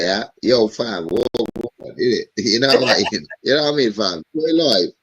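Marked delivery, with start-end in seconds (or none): 0.4-2.3 lightly put-on English accent; a hint of a London street accent. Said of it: "She will talk it like in the, in the English way".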